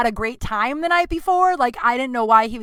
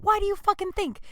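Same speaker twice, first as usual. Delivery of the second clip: higher, pointed comeback; lightly voiced exasperated friend; mock exasperated Adam; 10 semitones higher, 3 dB quieter than usual. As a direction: toss it back as obvious. Adam's sharp retort.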